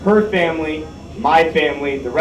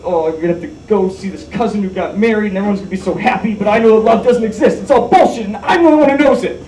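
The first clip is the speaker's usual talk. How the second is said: put-on melodramatic teen angst; 5 semitones higher, faster than usual. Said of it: "and I was like".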